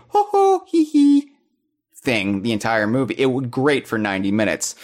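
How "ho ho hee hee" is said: very high, squeaky cartoon plumber giggle; Charles Martinet Mario. Podcaster mimics the classic Mario voice to his co-host, high giggling cartoon voice. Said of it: "You can't do the Charles Martinet".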